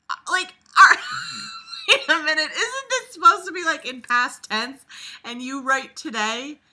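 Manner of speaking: high, loud, laughing disbelief; incredulous laughing. Real, not acted. Reader mocking the book's tense, incredulous and laughing. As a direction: protest through helpless laughter.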